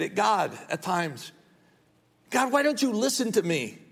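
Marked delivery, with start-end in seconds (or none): 2.3-3.8 high, pleading whine at God; mock frustrated pleading; frustrated prayer. Frustrated prayer voiced again.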